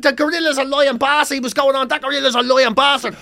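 high, loud, laughing all the way through; laughing quote. Retold or imitated. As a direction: gasp the lines out between laughs. Quoting old man amid laughter.

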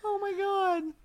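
stunned. Real, not acted. Disbelief after Furby story.

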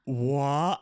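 loud stunned what; shocked what. Retold or imitated. Family sees the positive test, loud shocked what. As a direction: blurt it in disbelief. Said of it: "all in that moment went".

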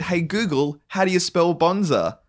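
high-pitched query to a voice assistant; voice command re-enacted. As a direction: put the question brightly to your phone. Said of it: "I said".

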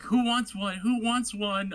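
loud, high call to the crowd; excited call. Retold or imitated. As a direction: shout it out, offering pies. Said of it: "just like, like".

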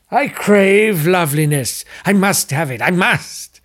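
craving villain. Acted. Brinsley explains why he needs loveliness, lightly voiced. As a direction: confess the craving with hunger.

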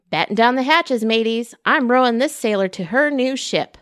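playful captain. Acted. Teacher plays pirate captain.

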